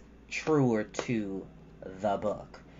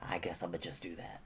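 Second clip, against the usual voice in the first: groggy reply; 5 semitones lower, 10 dB quieter than usual. Retold or imitated. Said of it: "I'm like".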